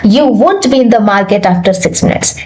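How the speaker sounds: slow, clear "You won't be" as one word; slow contracted model sentence. Shown as a demonstration. Teacher slowly demonstrates "won't" to students. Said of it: "आपका complete sentence क्या हो गया".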